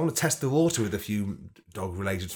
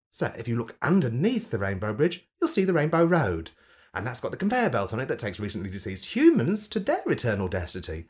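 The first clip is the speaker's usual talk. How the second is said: funny camp voice. Acted. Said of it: "I did it in a funny camp voice".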